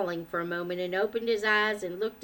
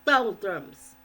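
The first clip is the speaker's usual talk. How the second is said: put-on lisping child. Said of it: "lisped the youngest member".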